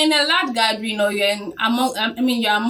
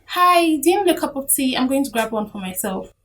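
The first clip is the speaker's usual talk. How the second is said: cheerful office tea offer, pitched up; bright friendly offer; 5 semitones higher than usual. Shown as a demonstration. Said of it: "you'll be like".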